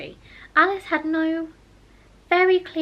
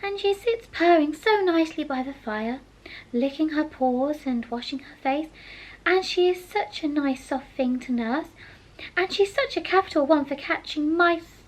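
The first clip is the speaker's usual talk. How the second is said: Alice's voice; 5 semitones higher than usual. Acted. Alice musing.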